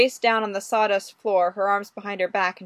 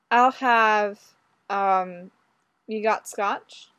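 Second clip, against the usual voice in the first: smooth flirting; much slower than usual. Acted. Ordering a drink flirtatiously.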